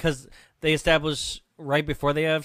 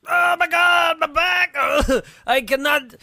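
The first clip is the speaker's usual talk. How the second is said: loud, much higher hammed-up scream of pain; mock agony; 11 semitones higher, 7 dB louder, slower than usual. Retelling a film scene to her co-host, hammed-up pained yelling. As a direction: overact a man whose back gives out mid-sex. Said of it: "he's like".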